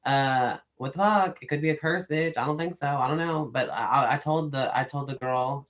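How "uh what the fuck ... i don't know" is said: louder, higher bewildered swearing; mock-panicked questions at the angel's light; startled cursing. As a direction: react in loud confused alarm. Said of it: "then I said".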